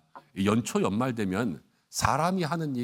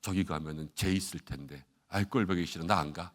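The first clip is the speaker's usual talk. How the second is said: sulky grumble; 5 semitones lower, 5 dB quieter than usual. Acted. Acts out hurt member refusing heaven.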